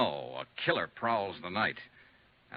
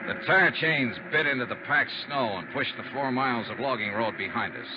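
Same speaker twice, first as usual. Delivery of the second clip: moody detective narration over music; story narration. A narrator's reading. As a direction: set the wintry scene like a hard-boiled narrator.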